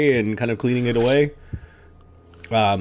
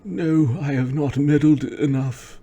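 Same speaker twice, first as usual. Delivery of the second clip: put-on high, rising old man's defiance; old meddly man; 7 semitones higher than usual. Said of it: "I like old meddly man".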